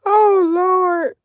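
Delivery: loud, high cry through laughter; laughing outcry. Real, not acted. Reacting to a funny chat message, laughing loudly. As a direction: burst out laughing on the words.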